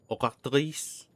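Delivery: "Ogatrice" with guttural Rs, oh-rak-TREESS; French-style "Ogatrice"; French throaty R. Shown as a demonstration. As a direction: roll both Rs of "Ogatrice" in the throat. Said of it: "you need to somehow roll it".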